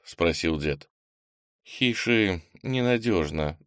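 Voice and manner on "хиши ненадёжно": slow and hesitant. Acted. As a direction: weigh each word slowly. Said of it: "медленно ответил Кенни".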